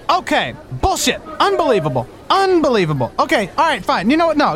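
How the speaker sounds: incredulous customer losing patience; exasperated. Acted. Customer fed up with broken machines.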